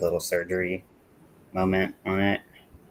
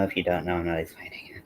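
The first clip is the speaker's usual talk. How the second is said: whispered aside; 5 dB quieter, faster than usual. Real, not acted. Conspiratorial aside.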